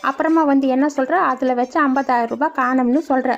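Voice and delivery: a hint of an aggrieved village mother; old mother's voice. Old mother denying she took money, indignant.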